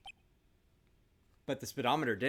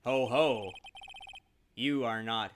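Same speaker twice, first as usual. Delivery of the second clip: self-satisfied murderer. Acted. Voices the murderer in the game.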